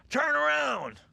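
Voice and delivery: high mock shout from the friend; retold urgent shout. Friend at Starbucks telling him to look, mock shout. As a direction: bark "turn around" as the pushy friend.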